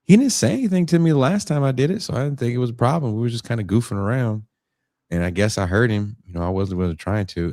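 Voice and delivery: put-on high, fast kid voice rushing through an excuse; kid explaining himself. Kid explains himself to the guard, high and hurried. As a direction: play the kid talking fast to dodge blame.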